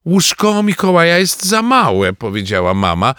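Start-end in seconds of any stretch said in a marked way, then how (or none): 0.0-2.1 raised, higher voice of a mum; a hint of a fretting mother; lightly voiced mother. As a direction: point out the problem in a high, loud voice. Mother voiced in family discussion.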